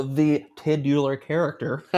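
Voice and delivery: slow "titular" with the first syllable punched; emphasized syllable. Real, not acted. Answering a quiz guess, deliberate stress on "titular". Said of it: "put the emphasis on that syllable".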